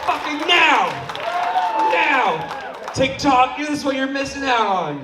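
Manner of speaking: loud, high yelling at the crowd; real yelling to fire up the crowd. Real, not acted. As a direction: yell it for the camera. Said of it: "I realize I'm yelling".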